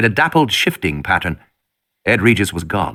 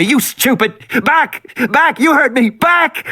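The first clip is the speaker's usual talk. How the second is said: lion tamer shouting; 14 semitones higher, slower than usual. Acted. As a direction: bark orders like a lion tamer. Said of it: "he shouted like a lion tamer".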